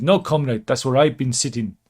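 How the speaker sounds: lightly voiced Russian leader; Putin. Putin answering Kim about the seat, lightly hammed impression.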